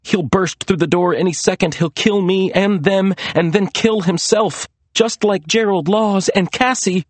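high, anxious inner voice; dread. A narrator's reading. Maria expecting Lester to burst in, dread. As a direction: spell out the looming threat fearfully.

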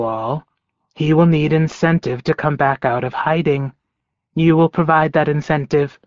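lightly voiced taunting wolf villain; a hint of a sneering predator; menacing wolf.

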